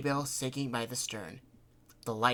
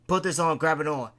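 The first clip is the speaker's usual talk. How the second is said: raised, loud voice; brisk orders; 4 semitones higher, 7 dB louder than usual. A narrator's reading. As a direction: call out quick instructions.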